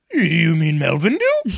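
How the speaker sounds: slow, a light Scooby impression; lightly voiced Scooby. Scooby correcting the monster, lightly voiced. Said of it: "Scooby goes".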